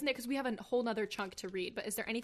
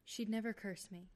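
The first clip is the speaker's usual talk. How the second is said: stunned murmur; 8 dB quieter than usual. Acted. Percy stunned realization.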